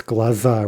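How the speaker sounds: "glaza" with stress on the final A; stressed ending. Shown as a demonstration. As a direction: say gla-ZA for "glaza". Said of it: "stressed ah".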